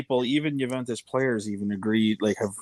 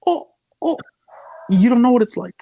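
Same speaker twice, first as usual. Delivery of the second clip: high mocking "oh, oh" then a louder jab; mock pity; 12 semitones higher, 6 dB louder than usual. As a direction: taunt the nephew with fake sympathy, pitched high. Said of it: "I go".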